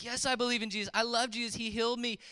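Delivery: imitating an overjoyed convert, pitched high; excited declaration. Healed man tells missionary he now believes, excited. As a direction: raise the voice high, quoting his eager profession.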